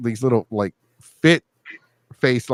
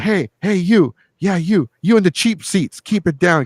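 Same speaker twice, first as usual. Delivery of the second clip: single out the guy in the cheap seats; calling out a heckler; 7 semitones higher than usual. Retold or imitated. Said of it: "And I'm like".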